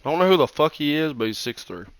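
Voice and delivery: talking while crunching chips. Real, not acted. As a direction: mouth full of chips. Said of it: "Sorry, I'm crunching".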